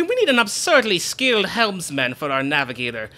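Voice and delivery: pompous, theatrical ship-proud boasting; boastful Flavio. Acted. To Mario, pompous boasting about the ship. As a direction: show off the ship grandly.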